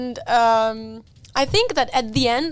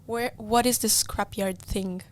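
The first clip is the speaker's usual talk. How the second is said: mild mock mom; 7 dB quieter, much slower than usual. Mom seeing the tow truck.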